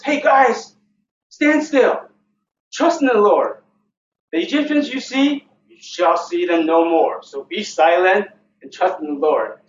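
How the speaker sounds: loud, high call to a crowd; rallying call. Acted. Moses addressing the frightened Israelites, rallying call. Moses rallies the people, acted.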